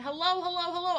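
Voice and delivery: high, loud sing-song hello; high cheery hello-hello-hello; singsong greeting. Real, not acted. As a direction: call out a bright stream welcome. Greeting stream viewers on arrival.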